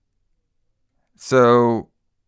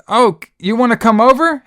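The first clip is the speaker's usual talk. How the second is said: high yelled mock line; mock screaming; 9 semitones higher, 4 dB louder than usual. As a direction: shout it like a bad child actor. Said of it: "then she says".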